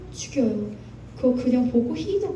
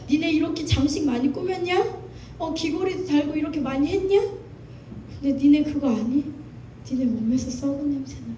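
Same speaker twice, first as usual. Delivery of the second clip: a hint of God rebuking his people, raised pitch; preacher voicing God's reproach, pitched up; God's rebuke; 4 semitones higher than usual. Preacher quoting God to the congregation, stern rebuke. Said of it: "이렇게 얘기하는 하나님".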